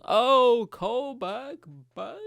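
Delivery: high, whooping "gotcha" flourish; hammed-up showman's cheer; mock triumph. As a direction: crow over your own joke, drawn out. Mock-celebrating his own callback joke.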